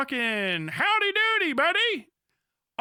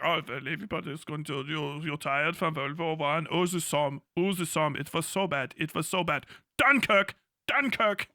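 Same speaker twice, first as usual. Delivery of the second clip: low, quick sneering mockery; mock them with a lower taunting voice; mocking Hitler; 7 semitones lower than usual. Hitler taunting war-weary Europe, lower and sneering. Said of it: "He took advantage of, like".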